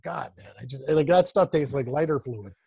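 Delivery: a hint of a grimace in the voice; disgusted. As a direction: recall the taste as if still wincing. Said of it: "I'm like".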